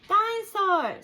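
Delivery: high, loud delighted squeal; excited toddler. Acted. Little George sees the dinosaur, squealing with delight. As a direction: gasp at the toy in wonder.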